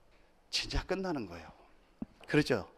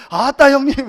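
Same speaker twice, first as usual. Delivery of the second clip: lightly imitated Jeolla greeting; a hint of Jeolla dialect; 7 semitones higher, 5 dB louder than usual. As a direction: greet an older brother the Jeolla way. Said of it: "저도 자연스럽게 나와요".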